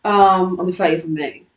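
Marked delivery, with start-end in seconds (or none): 0.7-1.0 "thirtieth" starting with an f sound; th turned to f. Shown as a demonstration. Giving an example date, "thirtieth" with an f. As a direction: say "thirtieth" as firtieth, f replacing th. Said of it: "My T H is sometimes turned to F".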